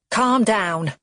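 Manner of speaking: snapped calm down; snapping. Acted. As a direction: cut him off impatiently. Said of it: "Cheryl snaps".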